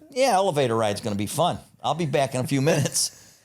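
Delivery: gleeful threat. Retold or imitated. Barry tells the narrator the elevator ride will be fun, gleeful and loud. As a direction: savour it like a treat.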